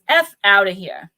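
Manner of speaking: New Jersey accent. Shown as a demonstration. Streamer giving viewers the mantra, in a New Jersey accent. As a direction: punch "F outta here" in a New Jersey accent. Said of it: "Say it in a New Jersey accent to add emphasis".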